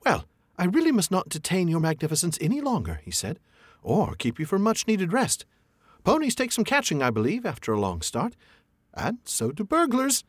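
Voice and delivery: high, cheeky hobbit voice; cheeky parting shot. A narrator's reading. Hobbit taunting the dragon while fleeing. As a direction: tease as you slip away. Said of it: "as a parting shot".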